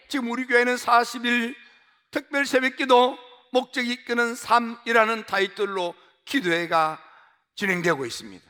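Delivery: ordinary talk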